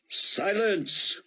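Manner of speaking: high, sharp shout of silence; shouted command. Acted. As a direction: bellow it to still the crowd. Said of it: "shouted one of the preachers".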